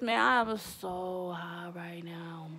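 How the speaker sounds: slow, drawn-out whisper; stoned whisper. Retold or imitated. Stoned girl whispering her confession on phone. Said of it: "I'm like".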